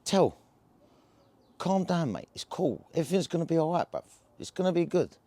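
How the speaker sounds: soft, calming words to a jittery mate; reassuring. Retold or imitated. Calming down his anxious mate, softly reassuring. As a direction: settle him down gently. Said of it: "And I went to him".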